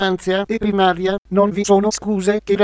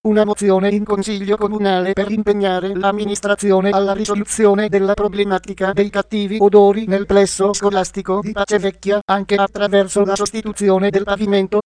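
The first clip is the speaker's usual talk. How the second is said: text-to-speech voice reading the news; even, computer-read news report; synthetic news voice. Real, not acted. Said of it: "sintesi vocale Voce Viva".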